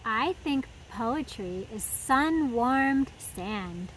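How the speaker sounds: slow, lightly voiced turtle; drawn-out, easygoing hint of a turtle. Turtle answering Daniel, slow and unhurried.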